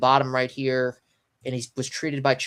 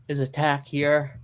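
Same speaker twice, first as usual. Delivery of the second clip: talking through a yawn; words stretched by a yawn; slower than usual. Real, not acted. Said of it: "I'm yawning, y'all".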